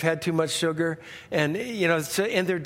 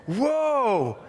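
drawn-out, raised whoa; long falling gasp of wonder in a word; audience whoa; 4 semitones higher than usual. Retold or imitated. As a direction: imitate an amazed studio audience. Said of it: "The whole audience would just go".

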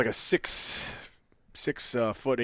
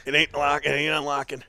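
groaning through a leg cramp; strained, pained words mid-cramp; hamstring cramp; 2 semitones higher than usual. Real, not acted. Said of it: "a very strong hammy cramp".

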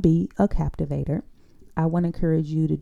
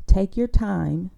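calm, deliberate pace; slow and unhurried; 4 dB louder, slower than usual. Shown as a demonstration. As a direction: take your time, slowly. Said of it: "Think of it the opposite way".

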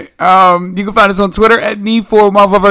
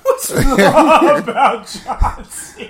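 high-pitched, laughing repeat of a question; laughing echo; 8 semitones higher, 3 dB quieter, slower than usual. Real, not acted. Host echoes co-host's question, laughing. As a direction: repeat it incredulously through laughter.

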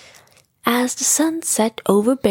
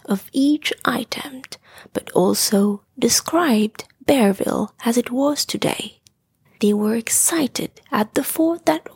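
whispered story narration. A narrator's reading. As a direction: whisper the story like tucking a child in.

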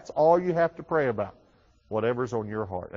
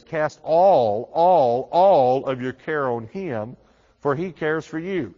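emphatic; 5 dB louder, slower than usual. Acted. Preacher emphasising Bible verse.

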